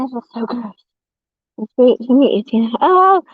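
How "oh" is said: high, bright playful greeting; mock sweet voice. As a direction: play it sugary and exaggerated.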